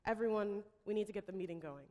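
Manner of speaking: a firm call to order, then quick and businesslike; a hint of a stern boss calling the room to order. COO Tom calls the executives to order, a hint of stern. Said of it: "Tom, with a very stern voice".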